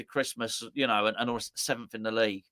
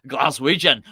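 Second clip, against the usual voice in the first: Scottish accent; 6 dB louder than usual. Shown as a demonstration. Host showing he can say Glaswegian, in a Scottish accent. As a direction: put on a Scottish accent, louder. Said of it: "I can say it in a Scottish accent".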